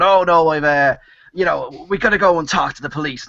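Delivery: put-on natural, understated Dublin Irish accent; ordinary Dublin accent. Actor auditioning for I R A part, plain Dublin accent. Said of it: "he's got a Dublin accent like me".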